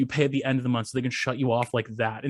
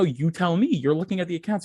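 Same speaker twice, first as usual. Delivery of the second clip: higher, indignant pushback; retold exasperation, pitched up; irritated comeback; 6 semitones higher than usual. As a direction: toss the question back at the clerk. Acting irritated comeback to store clerk.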